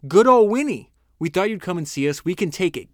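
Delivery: high, loud joyful cry of welcome; a delighted Londoner hailing Winnie; cheering crowd. Retold or imitated. A Londoner greets Churchill among the ruins, cheering loudly.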